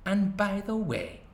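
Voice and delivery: an author reading his own novel aloud; story narration. A narrator's reading. Author reading his novel to an audience, narration voice. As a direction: tell it steady and wry, pausing between beats.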